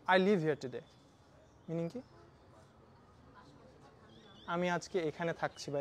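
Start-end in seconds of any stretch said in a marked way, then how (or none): 0.1-0.8 \"live\" with a short i, English model voice; English demo sentence. Shown as a demonstration. Teacher quotes the sentence as the plain meaning. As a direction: say \"live\" short, staying put. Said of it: "আমি যদি বলি".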